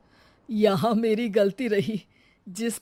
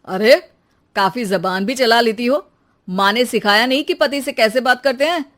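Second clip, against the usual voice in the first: angry husband; 2 semitones higher, 4 dB louder, faster than usual. Acted. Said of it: "गुस्सा हो जाता है".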